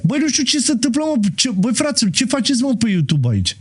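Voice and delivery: what on earth is going on; surprised. Real, not acted. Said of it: "nu mai înțeleg nimic".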